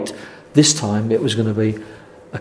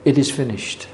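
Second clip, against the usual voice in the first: softly, dropping the voice, a quiet mild cry; hushed last words; 6 dB quieter than usual. Retold or imitated. Preacher quoting the Saviour's last words on the cross, hushed. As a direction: let it fall away as dying words. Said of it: "That was the cry from the Saviour".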